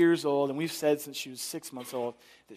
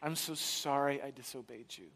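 put-on tearful child; 2 semitones lower, 10 dB quieter than usual. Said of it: "with tears in her eyes going".

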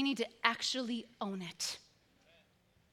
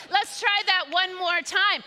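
louder, higher call to the crowd; pumped-up pastor shout; rousing shout; 6 semitones higher, 7 dB louder than usual. Real, not acted. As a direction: fire up the room.

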